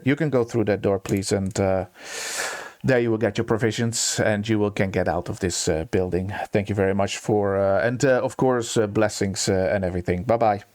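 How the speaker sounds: low, businesslike dismissal; understated, matter-of-fact official tone; without emotion. Acted. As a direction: send the visitor off unmoved. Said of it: "without emotion".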